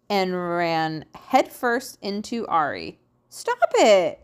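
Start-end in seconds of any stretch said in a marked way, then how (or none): 3.3-4.2 high, loud storybook shout; raised, higher-pitched cry to stop. A narrator's reading. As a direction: shout it out in protest. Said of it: "shouted Ari".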